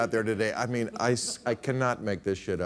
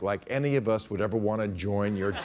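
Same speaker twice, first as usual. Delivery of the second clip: scornful retort; 3 semitones higher than usual. Acted. Students rejecting a racist fraternity, scornful.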